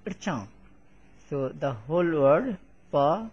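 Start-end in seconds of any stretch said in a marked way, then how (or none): 0.0-0.5 "rcha" starting straight on r, no vowel before it; r-led syllable. Shown as a demonstration. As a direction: run r into a nasalized "cha" in "rcha". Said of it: "is read like".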